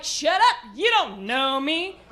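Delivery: mock-angry retort to a machine; sassy telling-off; irritated comeback. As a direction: burst out on the first words, then drag it. Snapping back at GPS lady.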